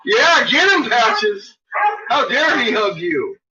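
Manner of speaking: squealing yeah, get him; excited cheering. Real, not acted. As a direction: egg the dog on, thrilled.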